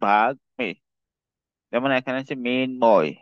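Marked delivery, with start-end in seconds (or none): 0.1-0.7 বাঘ মি in two parts, "bag-mi"; pronunciation demo. Shown as a demonstration. Teacher showing the retained ম in বাঘ মি, pronunciation demo. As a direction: sound the ম in বাঘ মি. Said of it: "এটা উচ্চারণ হবে".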